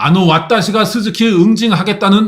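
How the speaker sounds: high-pitched, loud, boastful shout.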